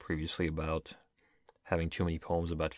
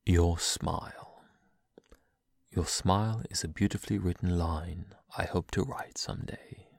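poem reading; slower than usual. Acted. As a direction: read it like a tender poem. Reads a poem aloud.

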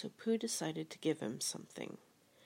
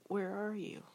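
eager call, pitched up; eager cry; 5 semitones higher, 4 dB louder than usual. A narrator's reading. Pooh calling to hidden Piglet, eager. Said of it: "cried Pooh eagerly".

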